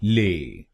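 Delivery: ले said alone as a clean "lay"; a short clear "le" for ले; syllable demo. Shown as a demonstration. Teacher isolating the third syllable, careful pronunciation. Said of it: "एलए को बोलिए ले".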